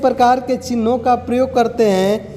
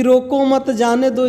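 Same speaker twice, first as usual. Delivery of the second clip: "रोको मत जाने दो" run together without any pause. Shown as a demonstration. Teacher shows students the ambiguous unpunctuated line, no pause. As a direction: say "रोको मत जाने दो" in one unbroken, unclear stretch. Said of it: "इसका मतलब कुछ समझ में नहीं आया".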